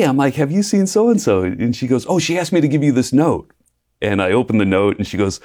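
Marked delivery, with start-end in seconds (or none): 0.3-1.4 high-pitched, eager question; mock-innocent inquiry, voice lifted high; acted hopeful asking. Asking her roommate where the crush is, acted hopeful. 2.1-3.5 lightly voiced, high-pitched roommate; breezy relay in a higher voice; imitated roommate. Roommate handing over the crush's note, lightly imitated.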